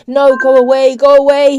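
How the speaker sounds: loud, high stage-whispered panic; scared, forceful pleading; frightened, frantic. A narrator's reading. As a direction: frantically drive someone off in fear. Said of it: "he said in a frightened whisper".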